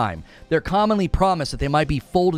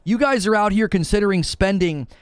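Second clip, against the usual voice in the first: exasperated rant; 4 semitones higher than usual. Retold or imitated. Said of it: "I'm like".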